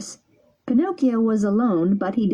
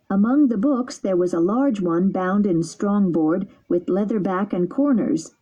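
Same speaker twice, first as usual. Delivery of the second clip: usual speaking voice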